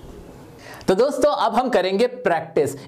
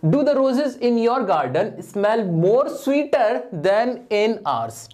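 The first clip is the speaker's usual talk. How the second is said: slow, deliberate reading of the faulty sentence; wrong sentence read slowly; much slower than usual. Shown as a demonstration. Teacher slowly reads the wrong exam sentence to students. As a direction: read the wrong version out word by word. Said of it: "ये तो बहुत ही मुंह से ही नहीं बोला जा रहा".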